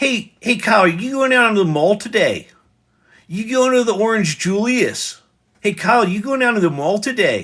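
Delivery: put-on central Pennsylvania accent. Imitating the accent heard growing up: central Pennsylvania accent. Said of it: "was that accent".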